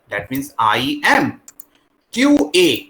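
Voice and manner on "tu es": "Tu es" with es sounded as "A"; French pronunciation. Shown as a demonstration. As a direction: say "Tu es" ending in an ay sound, silent S. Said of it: "E S sound is A". ("Tu es" में es का उच्चारण "ए")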